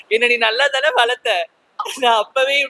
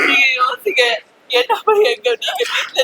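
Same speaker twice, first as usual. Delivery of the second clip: a sobbing outburst, pushed out hard; tearful cry to think it over; crying plea; 9 semitones higher than usual. Acted. Child begging the family to think of them, crying out.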